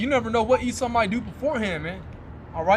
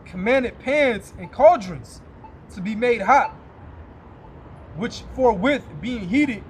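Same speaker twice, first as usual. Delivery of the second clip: put-on slow, louder, solemn reading of old scripture; 3 dB louder, slower than usual. Preacher reading Maccabees to his listeners, slow and solemn. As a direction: intone the verses like a preacher at the pulpit.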